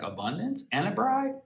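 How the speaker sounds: high, eager jump at the offer; David delighted at the prize; excited David. Retold or imitated. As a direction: pitch it up like a kid who can't believe his luck. David voiced, excited about reward.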